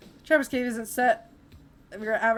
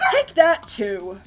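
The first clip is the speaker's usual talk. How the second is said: loud character line; 8 dB louder, much slower than usual. Acted. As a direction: throw it out like a gloating villain. Voicing a character.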